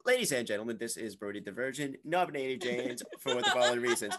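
fast, loud radio announcer intro; radio host voice. Acted. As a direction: boom it out like a DJ. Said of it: "You sound like a radio personality".

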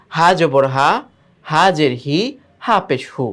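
short, quick syllables, no lingering; hurried recitation. Shown as a demonstration. Teacher showing pupils short vowels without stretch, hurried recitation. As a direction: recite হা, হি, হু briskly, cut short. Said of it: "এই যে তাড়াহুড়া".

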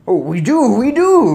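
high, loud, climbing repetition; anguished cry. A narrator's reading. Father admits to keeping a cat, crying out. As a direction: wail it, rising on the repeat. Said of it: "cried Mister Jenkins".

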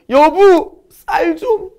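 very high, theatrical wail with fake sobs; mock crying plea. Husband crying to his wife for rice, hammed-up wailing. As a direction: sob and wail it in exaggerated fashion. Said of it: "울었더니".

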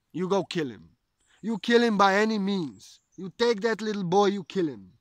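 loud, angry father ordering a killing. Retold or imitated. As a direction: bark the order like a raging demon king. Father orders son killed.

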